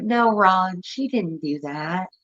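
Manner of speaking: lightly voiced mom lost in her own world; dreamy spacey mom. Spacey mom defending daughter.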